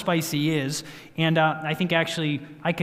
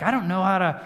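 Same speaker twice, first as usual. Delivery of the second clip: higher, mildly exasperated imitation; retold frustration; 4 semitones higher, faster than usual. Husband imitating his wife stuck at the pot, frustrated. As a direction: act flustered, pitch climbing as it goes. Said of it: "she got so frustrated 'cause she's like".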